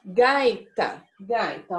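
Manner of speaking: slow, careful teacher enunciation of Gaita; sounding out a word. Shown as a demonstration. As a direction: say gaita clearly for the class. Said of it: "vamos colocar uma palavra aqui de exemplo".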